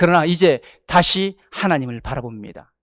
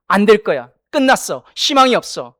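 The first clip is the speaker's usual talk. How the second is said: voice of fear. Acted. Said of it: "두려움은 언제나 말합니다".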